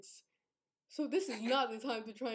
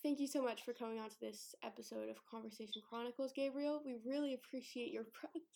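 podcast host voice; 7 dB quieter than usual. Pretend. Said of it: "I can't take myself seriously".

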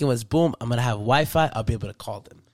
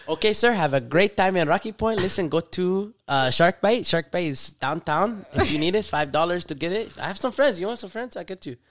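Mexican cop voice; 2 semitones higher than usual. Retold or imitated. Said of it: "how I assume he said".

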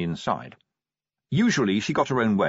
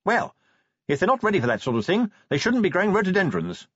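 much higher-pitched, matter-of-fact woman's voice; matter-of-fact lady; 11 semitones higher, 3 dB louder than usual. A narrator's reading. Sybil judging the neighbours' readiness, matter-of-fact. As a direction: state it briskly, as a high-voiced lady. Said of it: "said Sybil matter-of-factly".

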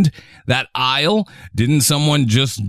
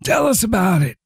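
hyped urging; 9 semitones higher than usual. Real, not acted. Egging him on loudly.

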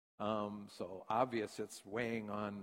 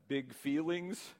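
slow, higher, tender asking; gentle mother question; 4 semitones higher, slower than usual. Retold or imitated. Mother asking her crying child, slow and gentle. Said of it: "she said".

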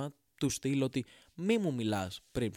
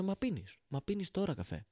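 high, mocking question from a friend; 6 semitones higher than usual. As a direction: mimic a baffled friend, pitched up. Friends' puzzled question, mocked.

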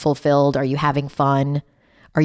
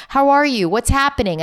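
high prying; 8 semitones higher than usual. Retold or imitated. Mother pressing daughter.

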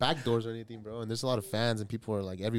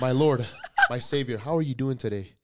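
worshipful fan; 3 semitones higher, 6 dB louder, slower than usual. Pretend. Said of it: "I would get on my knees".

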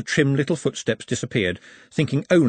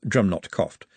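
plain reading voice

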